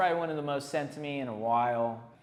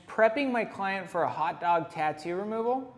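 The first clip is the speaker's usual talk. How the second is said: caption read; 4 semitones higher, 4 dB louder than usual. Acted. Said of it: "It says".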